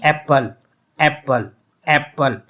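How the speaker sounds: first syllable of एप्पल stressed, second let fall. Shown as a demonstration. Teacher demonstrating a stressed syllable, first syllable of एप्पल stressed. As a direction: lean on the ए in एप्पल. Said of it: "ए को हम stress देकर पढ़ रहे हैं".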